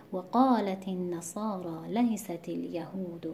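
slow, measured recitation of the verse; Quran recitation. Shown as a demonstration. Teacher reciting the verse correctly again for students. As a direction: recite it slowly, weight on قا of قالت. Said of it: "همینطور دوباره تکرار شده".

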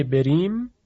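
a moderately fine R in بریم; بریم with the R lightened, not heavy; light R. Shown as a demonstration.

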